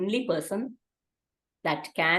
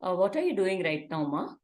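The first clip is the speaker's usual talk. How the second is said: calm parent. Acted. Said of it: "Now the alternate situation".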